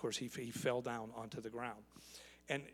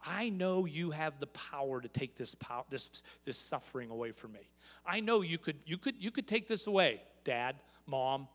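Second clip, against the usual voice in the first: put-on begging child; 6 dB louder than usual. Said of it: "coming to you saying".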